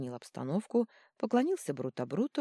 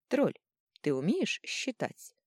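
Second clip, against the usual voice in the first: slow, purring question; 6 semitones higher, slower than usual. A narrator's reading. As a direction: purr it, teasing. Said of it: "мурлыкнула архимагистр".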